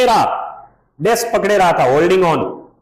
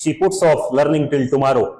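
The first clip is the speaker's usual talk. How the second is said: very slow, lower quoted line; teacher quoting the story slowly; slow quote; 5 semitones lower, much slower than usual. Retold or imitated. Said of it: "ऐसा कुछ कहा था".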